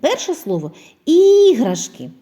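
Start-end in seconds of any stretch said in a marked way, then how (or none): 1.1-2.1 іграшки said slowly and loudly, high; drawn-out word for analysis. Shown as a demonstration. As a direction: stretch out іграшки for the children. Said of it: "Де знаходиться звук І?". (повільно й голосно іграшки)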